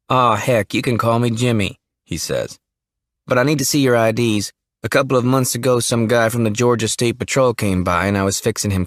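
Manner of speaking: hint of a shy Southern young man; young Jimmy. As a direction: play the jittery small-town kid. Jimmy, young funeral home son.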